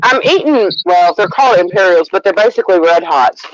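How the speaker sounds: talking with candy in mouth; mouth full. Real, not acted. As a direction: mouth full, throat catching. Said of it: "I'm eating ... one went down wrong".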